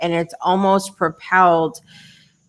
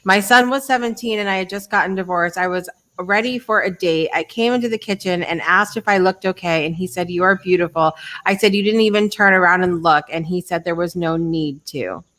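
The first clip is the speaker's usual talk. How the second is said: reading aloud; faster than usual. Shown as a demonstration. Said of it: "I haven't read this".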